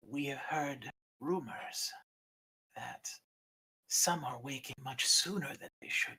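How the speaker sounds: put-on quiet menace from an old dragon; menacing dragon keeper. Egg Keeper confronts Ember.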